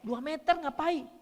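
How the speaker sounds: hammed-up wife yelling from two meters away; wife yelling at husband across the room, loud and high. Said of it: "ngomongnya keras".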